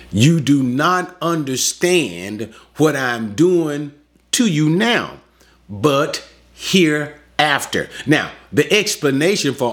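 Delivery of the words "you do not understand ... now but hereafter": slow, measured, gently explaining; patient, kindly. Acted. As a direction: take your time, as if patiently reassuring a pupil. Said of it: "patiently, kindly".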